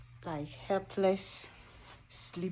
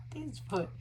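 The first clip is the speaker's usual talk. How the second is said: whisper; 5 semitones higher than usual. Real, not acted. Whispered aside to baby.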